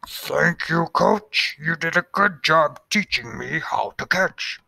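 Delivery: put-on high young boy's voice; boy's speech. Finch thanking his coach, high boyish voice. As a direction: thank the coach like an eager kid. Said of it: "He said".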